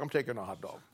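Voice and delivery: ordinary talk, nothing marked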